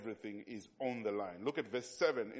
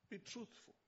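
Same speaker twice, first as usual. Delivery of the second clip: quiet; 8 semitones higher, 12 dB quieter than usual. Shown as a demonstration. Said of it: "I tell all the young pastors".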